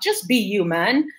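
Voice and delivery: slipping into a Jamaican accent. Real, not acted. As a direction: let the Jamaican accent come through. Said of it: "There go my Jamaican accent coming up".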